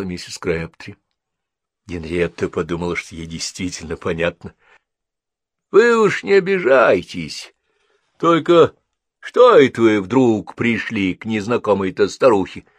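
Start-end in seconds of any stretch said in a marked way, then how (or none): 5.7-12.7 put-on higher, louder prying old lady; a wary old woman pressing; old woman questioning the visitor; suspicious old woman. A narrator's reading.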